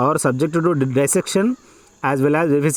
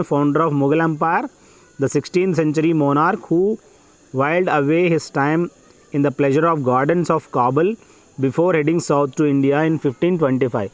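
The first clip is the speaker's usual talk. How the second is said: measured, phrase-by-phrase passage reading; dictation reading; much slower than usual. Acted. Teacher dictating an exam passage to students, measured dictation. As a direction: read it out slowly in short chunks with pauses.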